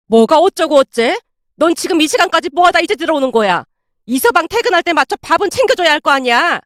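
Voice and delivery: angry scolding. Acted. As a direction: scold a daughter crossly, short of a full shout. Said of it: "삿대질까지 하며 소리치고 있었는데요".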